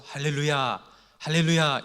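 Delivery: rising hallelujah call to the crowd. Retold or imitated. Revival preacher calling hallelujah to a silent congregation.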